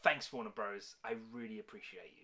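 low, soft, sarcastic, insincere tone. Youtuber addresses warner bros over copyright claims, sarcastic. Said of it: "I'll be fucking sarcastic".

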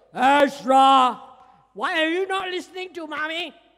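loud, thunderous, dramatic, frightening booming voice. Telling a child, Ezra, how God might scold him: loud voice as God. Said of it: "It was a loud voice".

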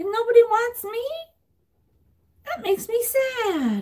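pitch rises very high, last word stretched out. Speaking as a character who looks like the Snuggle Bear, in a Snuggle Bear voice. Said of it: "I kind of sound like him".

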